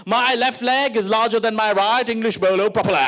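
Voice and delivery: over-enunciated Anglicised Indian English; exaggerated plummy British-Indian accent; mock-proper English accent. Parent drilling proper English, mock-proper English accent. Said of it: "sounded like you were auditioning for fucking Gandhi".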